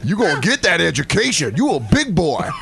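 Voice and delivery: lightly voiced Southern college recruiter; a hint of a folksy football scout. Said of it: "sound like a football recruit".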